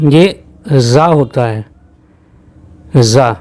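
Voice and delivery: जा with a buzzing z, za, not ja; teacher correcting the sound to za. Shown as a demonstration. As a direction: stress the z in जा. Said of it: "जा sound नहीं होती है".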